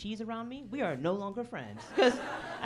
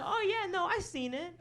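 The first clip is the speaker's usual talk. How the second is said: high, louder put-on bro reply; fake bro voice; 13 semitones higher, 4 dB louder than usual. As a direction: bluff like a sports fan, overdone. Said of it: "And so I just go".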